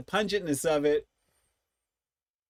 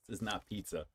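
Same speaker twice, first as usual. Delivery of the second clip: disgusted mutter; 6 semitones lower, 13 dB quieter than usual. Real, not acted. Tasting the chips.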